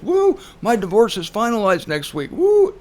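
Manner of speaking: imitating a giddy divorcée, rising to a high loud woo; mocking happy cheer. Juror in jury pool mocking her own divorce news, gleeful whoop. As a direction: gleefully crow about the finalized divorce. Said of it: "'Cause she was happy".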